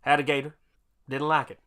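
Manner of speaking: laconic cowboy. Pretend. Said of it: "laconic cowboy voice".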